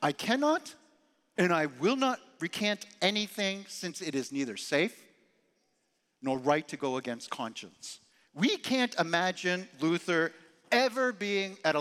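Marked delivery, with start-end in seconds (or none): 0.0-8.0 bold defiance. Retold or imitated. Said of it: "he boldly responded".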